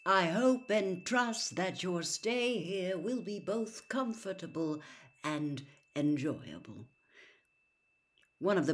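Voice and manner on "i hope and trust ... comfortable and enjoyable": lightly voiced old headmaster, slow and grand; a gentle hint of a wise old wizard addressing the school; mild stately headmaster; Dumbledore voice. Dumbledore's welcome speech read in role.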